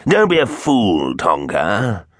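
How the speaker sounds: rasped rebuke, starting high and dropping; rasping voice. A narrator's reading. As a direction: ring out in a villainous rasp. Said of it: "a rasping voice rang out".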